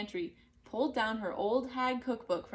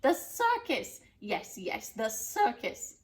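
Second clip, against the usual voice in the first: excited witch; slower than usual. Acted. Witch has idea.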